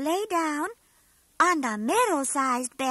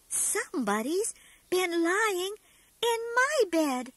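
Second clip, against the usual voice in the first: middle-sized voice; 3 semitones higher than usual. Acted. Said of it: "said Mother Bear in her medium, middle-sized voice".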